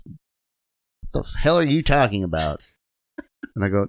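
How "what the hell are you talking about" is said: put-on slow, higher-pitched old-timer disbelief; imitating a baffled old coworker; incredulous trainer's voice. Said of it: "With that voice".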